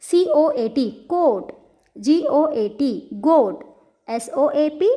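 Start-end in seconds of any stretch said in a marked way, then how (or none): 1.1-1.5 "coat" with a long O, higher pitch; long vowel. Shown as a demonstration. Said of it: "we will see now long vowel sound". 3.2-3.6 "goat" with a long O; long vowel. Shown as a demonstration. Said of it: "we will see now long vowel sound".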